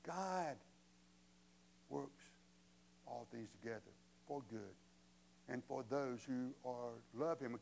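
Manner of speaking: soft, spaced out with long pauses; solemn correction. Real, not acted. Preacher giving the true verse against the cliché, hushed and measured. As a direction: let each part land quietly and low.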